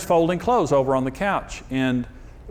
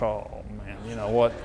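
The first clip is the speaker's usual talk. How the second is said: mock wary wife; 6 semitones lower, 5 dB quieter than usual. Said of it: "looking at me like".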